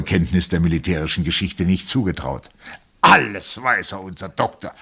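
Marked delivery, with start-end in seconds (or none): 3.0-4.7 called out. A narrator's reading. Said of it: "rief der Oberst".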